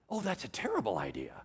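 hushed, breath-only dismay; aghast whisper. Acted. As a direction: whisper it as if horrified. Peter's aghast reaction to God.

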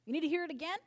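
mock-hurt outburst, stretching told; indignant retort. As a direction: bristle as if called a liar. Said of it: "I'd be like".

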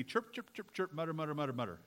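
rapid repetitive mock chatter; mock chirping and muttering. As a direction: imitate someone chirping and muttering in your ear. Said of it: "gonna mutter and chirp at my".

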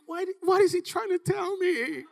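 high, loud, bewildered; baffled kid not getting it; confused teen. Retold or imitated. Young player confused by coach's yelling, high and puzzled. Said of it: "And I'm like".

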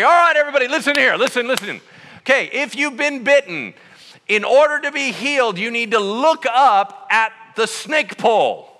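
rally the crowd like a leader; calling out. Retold or imitated. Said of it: "and he's like".

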